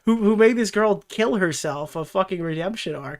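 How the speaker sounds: mock excited writer. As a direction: play a writer thrilled by a terrible idea. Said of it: "I was like, I was".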